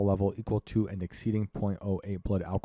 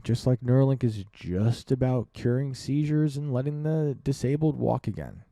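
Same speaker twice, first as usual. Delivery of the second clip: sarcastic; 5 semitones higher than usual. Retold or imitated. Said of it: "they say".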